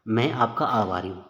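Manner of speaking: slow मैं आपका आभारी हूँ as one phrase; resuming after pause. Shown as a demonstration. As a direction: pick up at मैं after the comma, unhurried. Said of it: "रुको भाई थोड़ा". (ठहराव के बाद धीरे से मैं आपका आभारी हूँ)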